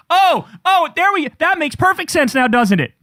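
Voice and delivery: loud sarcastic gotcha. Real, not acted. Sneering at the columnist's bias, sarcastic.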